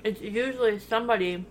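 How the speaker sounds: talking while eating; chewing between words; mouth full. Real, not acted. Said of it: "we're eating while we're recording".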